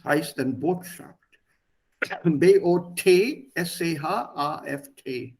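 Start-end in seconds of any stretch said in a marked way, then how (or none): 2.2-5.3 slow, letter-by-letter spelling; deliberate classroom spelling. Shown as a demonstration. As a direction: spell it out slowly for a class, each letter separate. Teacher spells word out for students.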